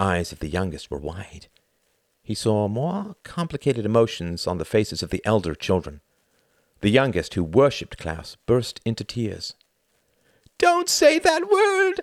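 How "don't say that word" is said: very high, shrieking, drawn-out scream. The youngest child, who worshipped Klaus, screams at him, screaming. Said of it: "she screamed".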